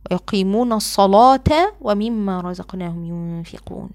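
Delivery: slow measured chanting of the verse; Quran recitation. Shown as a demonstration. Teacher reciting the verse to students. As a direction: recite it calmly with a heavy l in الصلاة. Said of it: "recites verse after explaining".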